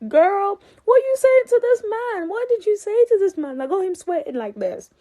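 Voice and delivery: very high, loud mock outrage; hammed-up high-pitched disbelief; incredulous reaction. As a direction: act out demanding an explanation from a girlfriend. Acted incredulous reaction to Joy.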